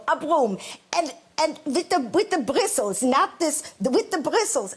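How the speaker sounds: high, emphatic mother impression; insistent eccentric mother. Mother fixated on a broom at the restaurant, mock insistence. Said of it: "she'd go".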